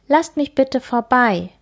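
put-on shy kindergarten girl begging; small girl pleading. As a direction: plead politely like a small child. Kim pleads with bullies.

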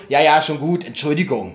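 mildly sulky mock apology; slightly sulky. Host imitating Justus apologising to the porter, a bit sulky. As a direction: give in grudgingly, imitating a huffy boy detective. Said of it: "ein bisschen bockig".

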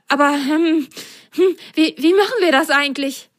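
high hesitant little voice; hesitate, clueless; puzzled sock. Acted. (ratlose hohe Stimme)

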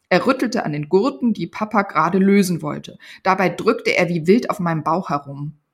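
put-on lively read-aloud narration of a children's book; story reading. Author reading her Panda book excerpt aloud, storytelling voice. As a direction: tell it like a bedtime story to kids.

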